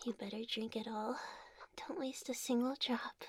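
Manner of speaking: soft, breathy teasing whisper. Acted. Intimate commanding whisper.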